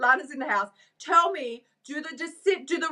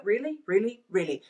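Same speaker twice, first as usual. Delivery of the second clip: sarcastic disbelief; 4 dB quieter than usual. Real, not acted. Incredulous repeated question.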